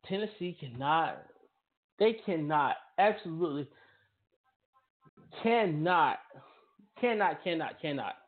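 "cannot" set apart by pauses, hit each time; insistent, separated stress on every "cannot"; emphatic CANNOT. Real, not acted. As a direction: hammer the word "cannot", pausing between repeats. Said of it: "I'm gonna emphasize the word cannot".

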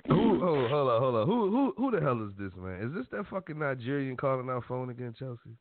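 startled outburst at the caller; incredulous. Real, not acted. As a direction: voice jumps high in disbelief. Host reacts to prank caller.

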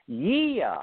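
high, loud, drawn-out yeah; blunt sisterly yes; matter-of-fact yes. Retold or imitated. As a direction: sister confirming the obvious. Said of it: "And she went".

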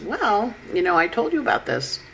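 lightly played know-it-all reminder; voiced messenger Mercury. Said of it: "but he always goes".

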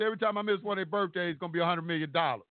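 quick retold threat. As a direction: rattle the threat off fast and firm. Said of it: "And I said".

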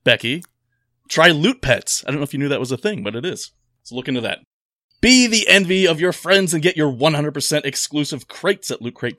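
upbeat sponsor read, selling it. Acted. Podcast host reads the Loot Crate sponsor spot, upbeat ad voice.

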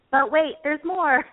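hammed-up TV huckster line; infomercial pitchman. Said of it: "like the infomercial".

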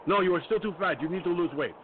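a half-hearted mock scream of her scolding; mild mock yell. Patient retells the doctor yelling, only a mild mock yell. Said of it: "she just starts screaming".

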